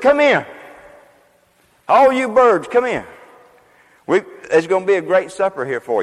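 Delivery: high, loud call to the birds; angel calling out. Acted. Preacher voicing the angel calling the birds to supper. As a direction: cry out like an angel summoning birds.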